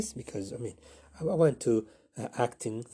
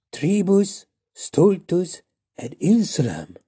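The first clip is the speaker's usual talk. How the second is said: higher, louder mock-Latin chant; spell incantation; 8 semitones higher, 6 dB louder, slower than usual. Flapperjack casting a Latin spell, Harry Potter style. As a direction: intone it like a wand spell. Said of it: "like in Harry Potter".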